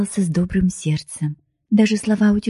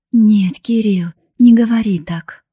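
higher, urgent plea; pleading; 4 semitones higher, 4 dB louder than usual. A narrator's reading. Woman begging her beloved after he breaks it off, pleading. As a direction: beg him not to push you away. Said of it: "умоляю я его".

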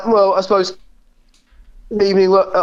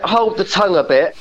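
normal talking voice

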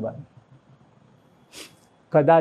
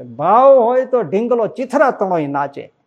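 higher, slow bardic recitation of ભાવ હોય તો; bard's own way; 6 semitones higher, 5 dB louder than usual. Retold or imitated. A preacher quoting the bard in his own style. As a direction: intone it like a folk bard. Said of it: "એ બારોટ એની રીતે કહેતા".

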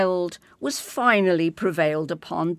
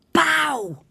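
higher, louder hissed order; loud prompt from the wings; 10 semitones higher, 5 dB louder than usual. Acted. Teacher prompting the third king, loud call. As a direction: urge the king to bow. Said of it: "came the disembodied voice from the wings".

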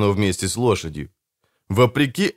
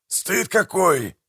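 slow, high, drawn-out shaming; mock-scandalised reproach; 9 semitones higher, much slower than usual. A narrator's reading. Manfred shames the brother who slept on watch, reproachful. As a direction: stretch it out to shame him.

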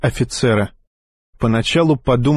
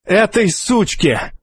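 scornful snarl; 8 semitones higher, slower than usual. Acted. Hostage-taker answers scornfully.

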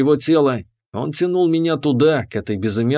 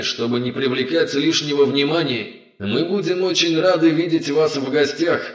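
calm, polished announcer over a speaker; velvety announcer voice. Acted. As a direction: speak like a pricey therapist. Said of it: "Так говорят профессиональные дикторы".

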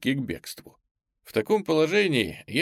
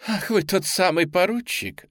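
laughing; 6 semitones higher than usual. A narrator's reading. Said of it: "захохотала она".

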